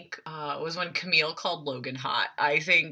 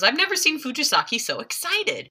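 amazed exec; 8 semitones higher than usual. Retold or imitated. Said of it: "Griffin goes".

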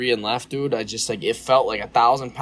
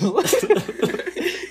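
high burst of laughter. Real, not acted. Laughing while retelling the story.

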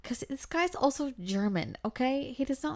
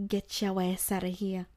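sassy inner voice. Retold or imitated. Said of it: "smart Alicia snaps right back".

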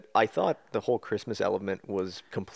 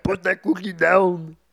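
slow, loud, higher mock movie-father line; movie quote voice; 9 semitones higher, 7 dB louder, slower than usual. Friend quoting a Christmas movie scene, slow loud mock bark.

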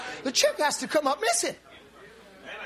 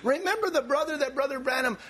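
ordinary talk

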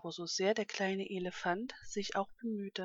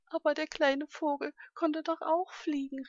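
higher-pitched, mildly indignant protest; almost indignant; 6 semitones higher, 4 dB louder than usual. A narrator's reading. Little elephant objects to being laughed at, almost indignant. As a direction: protest with a touch of outrage. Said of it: "fast empört darüber".

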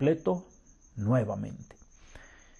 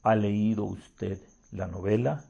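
baritone voice; 3 semitones lower than usual. Acted. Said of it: "dijo con una voz de barítono".

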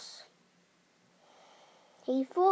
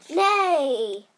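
horse neigh; 6 dB louder than usual. A narrator's reading.

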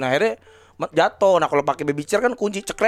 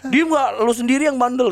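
mock scolding; 6 semitones higher than usual. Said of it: "kesel banget gua".

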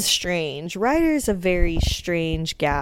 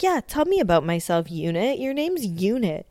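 higher mock scornful rant; mock angry insult; 4 semitones higher than usual. Snooki insulting the Unit, higher mock scorn. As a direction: belittle him, pitched up. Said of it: "She's like".

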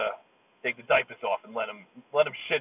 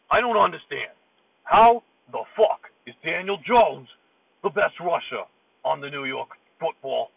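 frustrated outburst; 5 semitones higher, 6 dB louder than usual. Acted. Giants fan ranting into a voicemail, exasperated yell. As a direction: blow up at the team in disbelief. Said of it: "I'm just so frustrated".

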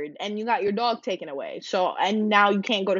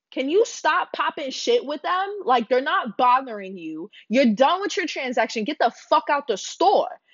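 higher, heated confrontation; retold telling-off; 4 semitones higher than usual. Narrator retelling how she told off the Karen, heated. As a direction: tell her off, high and sharp. Confronting rude customer in Target.

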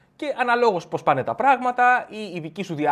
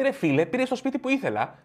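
higher, wounded complaint; aggrieved friend; 8 semitones higher than usual. Acted. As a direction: complain like you've been robbed. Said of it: "σου λέει".

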